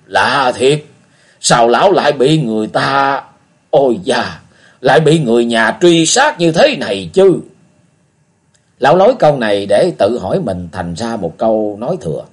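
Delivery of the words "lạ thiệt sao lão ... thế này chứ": lightly voiced puzzled old man; a hint of an old man wondering aloud; old beggar muttering. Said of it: "Lão Cái lại lẩm bẩm".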